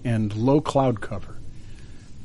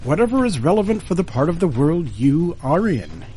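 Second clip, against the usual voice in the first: bright, lifted show-opening voice; radio host intro; 2 semitones higher than usual. Acted.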